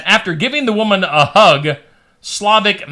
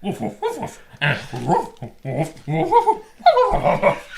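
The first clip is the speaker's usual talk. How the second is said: dog barking story; 4 dB quieter than usual. Acted. The dog alerting the campers, all in barks. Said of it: "he was like".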